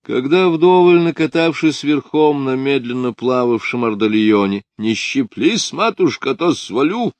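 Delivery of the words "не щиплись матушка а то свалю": playful yelling. A narrator's reading. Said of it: "покричав и пофырков".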